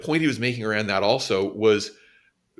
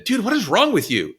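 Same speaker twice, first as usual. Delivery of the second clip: higher, louder mock of a blunt teen; blunt kid outburst; 10 semitones higher, 5 dB louder than usual. New kid in class blurting at an autistic classmate, mock blunt.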